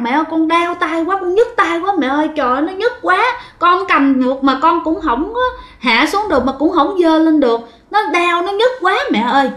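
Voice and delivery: high, tearful mock-childish whimper; crying child's plea. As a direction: plead with mom like a hurting, crying kid. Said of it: "bạn gào, bạn khóc lên". (giọng trẻ con mếu máo kêu đau)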